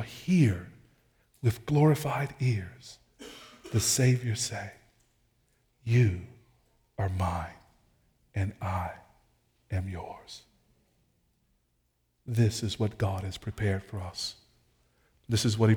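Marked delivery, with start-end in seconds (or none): 5.8-10.4 hushed, lower and softer, with pauses; tender quote. Acted. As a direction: let each phrase land gently and quietly. Preacher voices the Savior tenderly.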